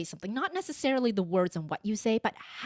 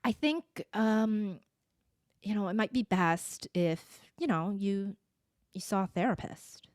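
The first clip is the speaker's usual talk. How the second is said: gentle, hesitant suggestion. Shown as a demonstration. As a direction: ease into it, feeling for the words. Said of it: "interjected with".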